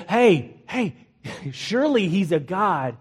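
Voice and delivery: mild retold taunt; mocking. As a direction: lightly tease them as Elijah. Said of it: "he just mocks them".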